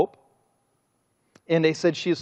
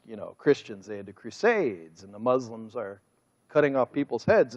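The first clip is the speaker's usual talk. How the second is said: mocking scoffers' view; 6 semitones lower, 5 dB quieter than usual.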